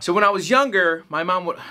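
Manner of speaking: lightly voiced stand-up comic, a little forceful; Carlos Mencia attempt. Reviewer tries a comic's joke, lightly put-on stand-up voice. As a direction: launch into a joke, barely in character. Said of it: "my best attempt at Mencia".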